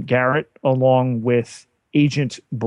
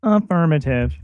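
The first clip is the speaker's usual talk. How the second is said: robot voice; 3 semitones higher than usual. Pretend. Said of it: "can we have the real Pete back now".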